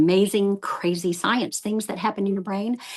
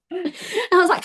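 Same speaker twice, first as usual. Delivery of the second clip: laughing; 11 semitones higher, slower than usual. Real, not acted. Laughing at her own blank mind.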